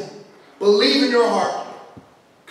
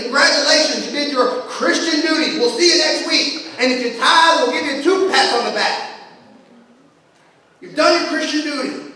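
mock congratulations; 4 semitones higher than usual. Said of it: "pat you on the back".

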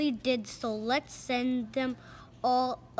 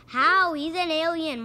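high loud cartoon alarm; mock alarmed shout; 4 semitones higher, 8 dB louder than usual. Scared crook yelling to the gang. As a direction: blurt it in cartoon panic. Panicked character outburst.

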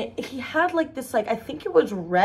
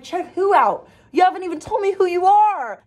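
baffled retort; 9 semitones higher, 4 dB louder than usual. Retold or imitated.

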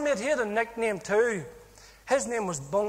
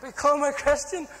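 higher-pitched, incredulous echo; retold scoffing; 5 semitones higher than usual. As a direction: scoff at the very idea. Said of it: "I was laughing".

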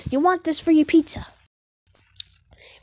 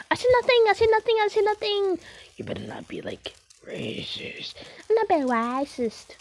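put-on, higher-pitched working voice; 3 semitones higher than usual. Player denying it to a questioner, working voice. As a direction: lightly pitch the voice up for work. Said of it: "Why are you talking like that?".

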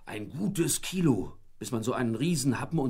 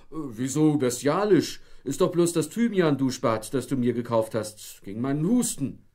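puzzled husband; 3 semitones higher, 5 dB louder than usual. A narrator's reading. Husband puzzled under shower.

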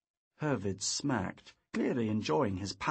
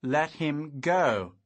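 slow, louder, teeth clenched; through clenched teeth; 3 semitones higher, 5 dB louder, much slower than usual. A narrator's reading. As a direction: growl the order again. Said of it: "through clenched teeth".

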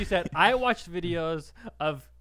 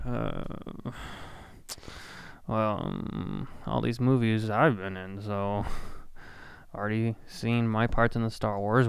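lower, gruff Harrison Ford; Harrison Ford impression; 6 semitones lower than usual. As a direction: Harrison Ford grumbling at the cinema. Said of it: "Harrison Ford buying a ticket".

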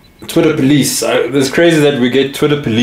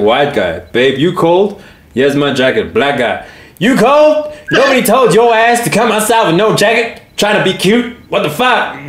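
white guy accent, then high-pitched Black guy accent; racial accent switch; 5 semitones higher than usual. Shown as a demonstration. Showing co-host how to read the joke, in white and Black accents. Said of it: "You gotta read it in the right".

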